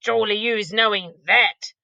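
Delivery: a giant scoffing at the idea. Acted. BFG voiced exclaiming.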